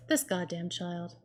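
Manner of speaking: slow, muffled exasperated groan; face in hands. Real, not acted. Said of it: "exasperated, head in hands".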